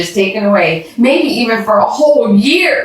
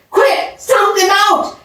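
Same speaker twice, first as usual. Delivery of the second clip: high, slow urgent cry; panicked call to stomp the fire; urgent shout; 12 semitones higher than usual. A narrator's reading. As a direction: yell it to get them moving.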